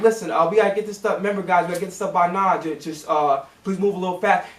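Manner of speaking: low, easygoing mock reminder; gentle reminder. Shown as a demonstration. Worker modelling how a boss should hurry staff, gentle reminder. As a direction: demonstrate a polite, casual nudge. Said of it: "just give a reminder".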